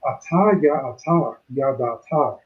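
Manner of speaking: "Ata ya ata, ya da ata" recited with an even rhythmic beat; lightly rhythmic Hebrew reading of "Ata ya ata, ya da ata"; reading the Hebrew line. Shown as a demonstration. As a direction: lean on each "ata" in "Ata ya ata, ya da ata". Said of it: "it reads like this".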